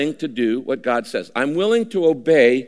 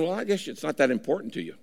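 mild shrugging God; 7 dB quieter, faster than usual. Pretend. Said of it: "God's going".

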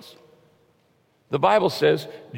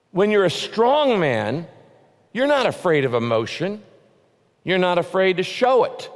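forceful exhortation; 4 semitones higher than usual. Real, not acted. Preacher urging the men not to fear emotion, forceful.

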